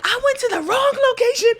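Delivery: high, loud laughing cry; laughing wail. Retold or imitated. Telling friends about the wrong location again, a loud laughing wail. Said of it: "different level of anger".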